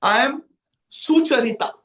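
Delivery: lightly voiced dainty girl; a hint of a delicate, feminine manner. Kalavali in disguise introduces herself to Jatila, lightly delicate feminine voice. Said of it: "in her very delicate feminine voice says".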